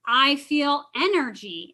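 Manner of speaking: slow, stress on energy; slow affirmation. Shown as a demonstration. Counselor modelling the third step, slowly. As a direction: let it land slowly. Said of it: "I take a step back and I say".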